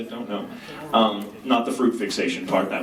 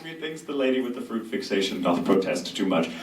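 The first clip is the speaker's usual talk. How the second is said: measured, theatrical recital; a touch of stagey Shakespeare; Shakespearean line reading. Shown as a demonstration. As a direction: deliver it like a stage actor. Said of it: "could you quote it".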